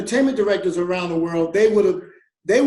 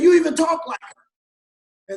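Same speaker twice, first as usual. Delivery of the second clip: imitated shout, higher, louder and slow; amazed exclaim; 9 semitones higher, 6 dB louder, slower than usual. Paul insisting to Bruno he sounds alike, a slow mock shout. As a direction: hammer home the amazement. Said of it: "He said".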